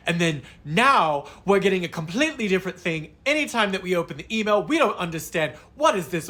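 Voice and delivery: mock-indignant wife tearing into the agent; angry complaint. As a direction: lay into her with indignant complaints. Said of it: "The wife fucking lays into me".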